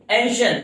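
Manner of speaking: "mention" sounded as two parts, men-shun; syllable demonstration. Shown as a demonstration. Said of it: "दो अलग अलग sound create करें".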